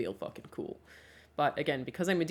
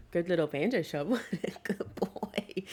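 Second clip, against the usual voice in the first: whisper. Real, not acted. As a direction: hush and coo at him. Cooing at dog on camera.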